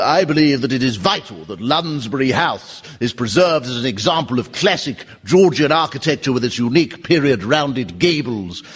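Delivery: lightly voiced stuffy heritage speaker, slowing at the end; a hint of a pompous BBC preservationist; posh TV campaigner. Campaigner on BBC Two defending a Georgian house, light posh voice. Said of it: "someone comes on B B C Two".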